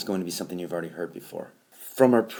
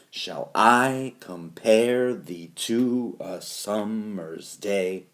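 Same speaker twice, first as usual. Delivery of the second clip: slow "shall I comPARE thee TO a SUMmer's DAY" in one flowing run; iambic stress; much slower than usual. Shown as a demonstration. Teacher showing where stress falls, iambic stress. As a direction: lean long on I, PARE, TO, SUM, DAY. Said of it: "This is where the stress falls".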